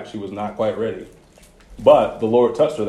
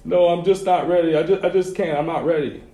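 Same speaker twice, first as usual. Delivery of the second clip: imitating sobbing daughter; 6 semitones higher than usual. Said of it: "She starts sobbing some more".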